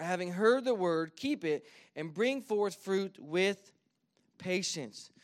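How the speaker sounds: measured, carrying Bible reading; scripture reading. Acted. Pastor reads Luke's parable to the church, in a measured carrying voice. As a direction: read the parable out to the congregation.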